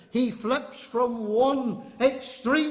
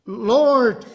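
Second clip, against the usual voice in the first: louder, indignant address to the Lord; 7 dB louder than usual. Acted. Peter objecting to the Lord washing his feet, indignant. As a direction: cry it out in protest. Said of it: "That's how he said it to the Lord".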